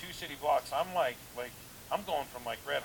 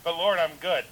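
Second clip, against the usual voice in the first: protesting to the Lord; 3 semitones higher, 8 dB louder than usual. Retold or imitated. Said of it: "arguing back with the Lord".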